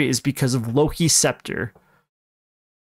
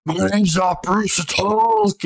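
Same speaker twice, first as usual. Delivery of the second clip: mock Hulk voice; 5 semitones higher, slower than usual. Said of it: "but Bruce is like".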